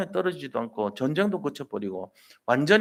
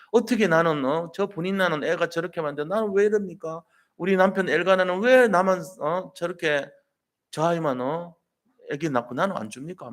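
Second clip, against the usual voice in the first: complaining lament; 3 semitones higher than usual. Retold or imitated. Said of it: "막 원망한 거예요".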